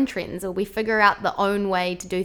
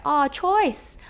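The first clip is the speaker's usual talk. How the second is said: higher, approving Kiwi bro voice; cheeky, raised Kiwi street accent; Kiwi bro lingo; 7 semitones higher, 3 dB louder, much slower than usual. Shown as a demonstration. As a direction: enthuse like a New Zealand bro. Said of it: "the classic New Zealand lingo".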